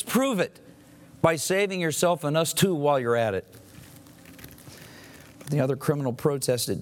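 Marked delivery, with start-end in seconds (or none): 0.0-3.5 higher, jeering challenge; scoffing taunt. Retold or imitated. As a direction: throw it up at him like a dare.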